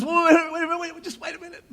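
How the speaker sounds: high calling out wait; mom calling him back. Retold or imitated. Mom calling her son back at the door, high and urgent. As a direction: call him back before he leaves. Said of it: "she goes".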